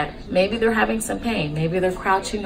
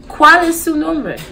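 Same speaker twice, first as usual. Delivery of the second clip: slow, higher, louder teaching voice; slow language demo; 9 semitones higher, 5 dB louder, slower than usual. Shown as a demonstration. Nurse teaching how to ask a patient's name, slow demo. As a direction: present the Spanish question slowly and clearly. Teacher repeats phrase for learners.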